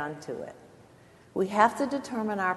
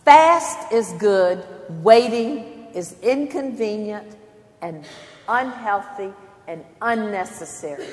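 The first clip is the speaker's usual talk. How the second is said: mock slogan; 4 dB louder than usual. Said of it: "everything that says to us".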